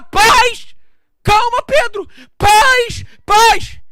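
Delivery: urgent, high, full-voiced cries; Jesus shouting. Jesus halting Peter's attack, loud urgent shout. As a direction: shout to stop him mid-blow.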